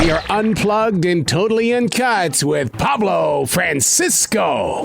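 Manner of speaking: big drawn-out radio opener; show host intro. Real, not acted. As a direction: announce the guest to the whole audience, drawn out.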